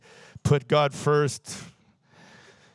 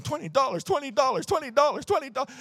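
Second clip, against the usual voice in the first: anxious inner voice; 10 semitones higher than usual. Retold or imitated. Teen obsessing over the money.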